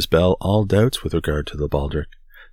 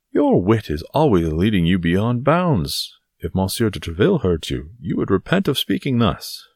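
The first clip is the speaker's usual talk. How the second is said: scolding Porthos; 4 semitones higher, 4 dB louder than usual. Acted.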